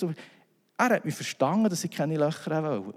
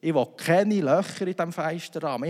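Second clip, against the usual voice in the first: firm insistence; 4 semitones higher than usual. Retold or imitated. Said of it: "ich habe gesagt".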